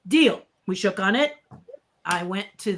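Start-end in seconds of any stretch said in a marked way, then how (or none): 0.1-0.4 high, bright okay then a firm deal; lightly voiced friend agreeing. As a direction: seal the bargain. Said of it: "And he goes".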